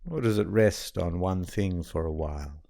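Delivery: calm, even meditation guide with long pauses; guided meditation. Acted. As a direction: settle the listener gently, leaving long silences between phrases.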